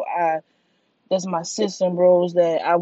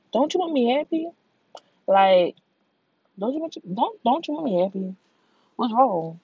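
mock confused whine; 6 semitones higher than usual. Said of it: "that shit really just be like".

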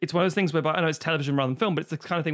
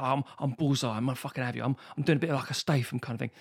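lightly voiced tough guy from the streets; Bullseye; 2 semitones lower, faster than usual. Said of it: "I'll try to do it like this".

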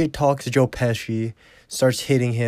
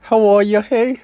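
much higher, hammed-up voice of a shocked father; high mock Ginger voice; 9 semitones higher, 3 dB louder than usual. Husband asking his tied-up daughter, mocking high voice. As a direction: squeal it out in a mocking falsetto. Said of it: "she's like".

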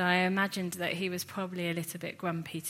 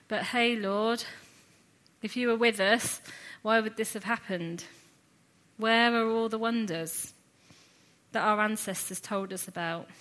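higher-pitched, mildly sour challenge; a little sour; 3 semitones higher, 4 dB louder than usual. Acted. Preacher as Gideon challenging the Lord, a little sour. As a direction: question him with a touch of sourness. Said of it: "a little bit sour and quick to say".

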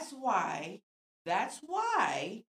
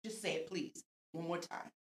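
teasing dare; 4 dB louder than usual. Retold or imitated. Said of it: "I'm like".

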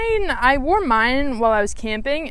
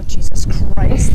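slow, drawn-out dismay; dismayed groan; 4 semitones lower, 11 dB louder, much slower than usual. Retold or imitated. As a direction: sigh it out in disbelief. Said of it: "and I go".

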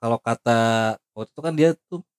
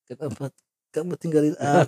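melodramatic lament; 6 semitones higher than usual. Retold or imitated. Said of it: "drama banget gua".

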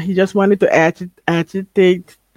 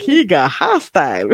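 mock alarmed cry; 3 semitones lower than usual. Retold reaction to a character's outburst.

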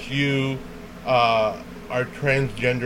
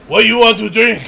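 mimicked Chinese accent; 8 semitones higher, 8 dB louder, faster than usual. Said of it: "had such a super thick accent".

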